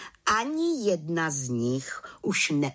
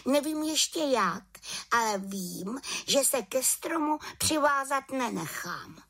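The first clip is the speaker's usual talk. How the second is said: put-on higher little-girl witch voice, stubborn; a small witch who won't give in; determined little witch; 13 semitones higher than usual. A narrator's reading.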